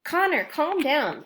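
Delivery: slow, firm calming; insisting. Acted. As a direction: settle him down firmly. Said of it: "Alex insisted".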